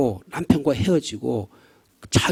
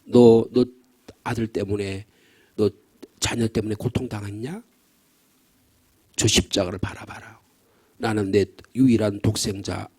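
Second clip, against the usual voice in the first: voice of God; 7 semitones lower than usual. Retold or imitated. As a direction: speak gently as God to the suffering. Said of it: "주님이 말씀하신다는 거예요".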